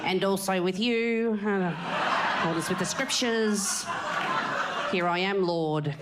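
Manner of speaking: slow churchy murmur; mock church response. Adelaide audience as churchgoers, slow mock liturgy. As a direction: intone it like a mass congregation. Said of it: "it's like they're at mass".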